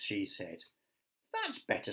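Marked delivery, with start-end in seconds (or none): 1.3-1.9 pleased smile. Acted. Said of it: "smiled Wilfrid".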